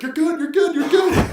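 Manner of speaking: very high, loud repeated shouts; imitated yelling. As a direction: yell it over and over like a frantic attendant. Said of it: "he kept yelling at her".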